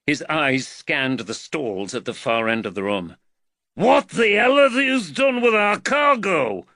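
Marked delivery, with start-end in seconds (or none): 3.7-6.7 put-on loud, high, outraged Liverpool accent. A narrator's reading. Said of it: "the Liverpool accent".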